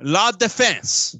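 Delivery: bad French accent on La Defense. Shown as a demonstration. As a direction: say it the French way, badly. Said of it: "that's my French accent".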